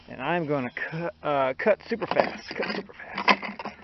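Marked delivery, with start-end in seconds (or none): 2.6-3.8 slow unvoiced whisper of the phrase. Shown as a demonstration. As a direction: breathe it out slowly, no voice. Repeats phrase, second in whisper.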